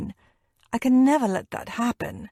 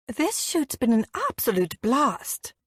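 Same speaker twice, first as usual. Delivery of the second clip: put-on English accent; 4 semitones higher than usual. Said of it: "she declares loudly, in her cut-glass English accent".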